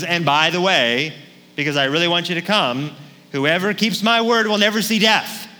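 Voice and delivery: oversell it like a preacher inviting people; mock pastor boast. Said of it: "just imagine if J B came back".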